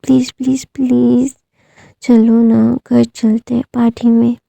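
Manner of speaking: teary pleading. Acted. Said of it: "अपनी teary आंखों से बोलता है".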